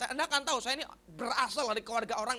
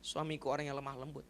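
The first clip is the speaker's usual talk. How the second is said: soft, low, humble pleading; wife's prayer; 9 semitones lower, 9 dB quieter than usual. Retold or imitated. Wife praying nightly for her harsh husband, soft pleading. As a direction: pray quietly, almost to yourself. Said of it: "tiap malam dia berdoa".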